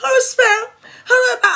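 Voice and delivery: high, laughing mock of a fussy pedant. Vlogger mocking critics who fuss over her spelling, high laughing mock voice. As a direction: squeal it like a fussy spelling checker. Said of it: "I will not sit down standing".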